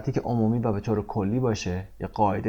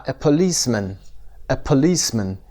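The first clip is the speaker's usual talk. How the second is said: "policeman" with LICE stressed; stress on second syllable. Shown as a demonstration. Teacher models "policeman" for students, second syllable stressed. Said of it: "قسمت دوم".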